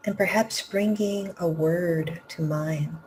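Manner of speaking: unhurried phrases with long pauses between; guided meditation. Real, not acted. Teacher leading students to empty the cup of the heart, guided meditation. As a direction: guide them gently inward, leaving room to breathe.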